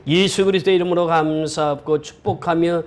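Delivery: slow, drawn-out sung close; chant-like closing with a long amen; intoned prayer ending. Real, not acted. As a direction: stretch the final syllables into a low held note.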